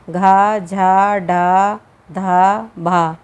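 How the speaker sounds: "घा, झा, ढा, धा, भा" each with a strong breathy burst; aspirated consonants. Shown as a demonstration. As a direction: push air hard before every syllable. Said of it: "हवा का आघात करके". ("घा, झा, ढा, धा, भा" हवा के आघात के साथ)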